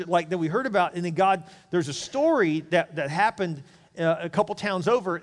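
mock a keen, chatty traveller; friendly stranger. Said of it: "he says".

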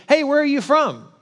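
put-on a friendly old woman calling over; old lady. Old lady on pier asks.

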